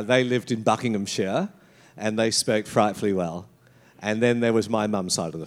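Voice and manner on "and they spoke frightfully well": a touch of posh English, pitched low; posh English accent. Retold or imitated. Describing the very posh side of the family, posh English accent. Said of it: "very posh".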